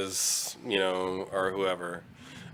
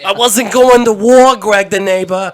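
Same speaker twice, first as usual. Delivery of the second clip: put-on old Jewish character voice; 9 semitones higher, 11 dB louder than usual. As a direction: play a loud old man reminiscing. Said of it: "That was Jewish, Jewish Theater".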